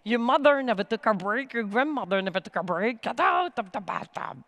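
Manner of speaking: inner critic insisting you never rest; nagging inner voice. Retold or imitated. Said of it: "And the voice says".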